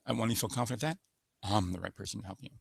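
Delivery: rise, then settle down with authority. Shown as a demonstration. Coach showing the up-to-down authority tune. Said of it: "So it goes from up to down".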